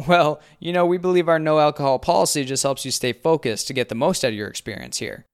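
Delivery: high, loud, preachy camp counselor; earnest counselor reciting policy. A narrator's reading. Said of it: "cringy camp counselor vibe".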